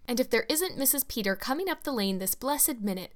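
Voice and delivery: bright, eager exclamation at a welcome arrival; exclaiming. Acted. Hostess spotting a visitor in the lane, exclaiming eagerly. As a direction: call it out with busy delight. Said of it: "exclaimed Missus Spencer".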